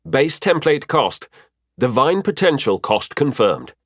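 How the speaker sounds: a hint of an automated help desk; system announcer. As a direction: read out notifications in separate, measured phrases. System help desk reads out notifications.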